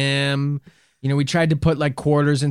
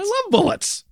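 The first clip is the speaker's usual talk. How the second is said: robot voice. Pretend. Speaking as a robot.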